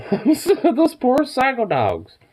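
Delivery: high, slow words squeezed through laughter; cracking up mid-sentence; laughing. Real, not acted. Owner laughing at her dogs, high and slow through laughter.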